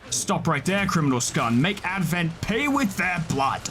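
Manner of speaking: lightly hammed-up game guard; a hint of an Oblivion guard; Imperial Guard impression. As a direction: quote the guard, drawing out the final threat. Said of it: "The Imperial Guard voice pack from Elder Scrolls Oblivion".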